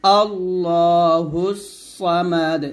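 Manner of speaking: slow আল্লাহুস সামাদ, final দ bounced; qalqala stop. Shown as a demonstration. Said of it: "আবার বলেন আমার সাথে".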